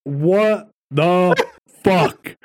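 slow, stunned laughing curse; drawn out in shock; laughing disbelief. Real, not acted. Stunned by the post.

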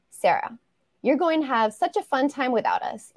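steady, measured reading of a first chapter; story narration. Acted. Author reading her new novel's first chapter to listeners, measured narration. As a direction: read it like an author sharing her novel aloud.

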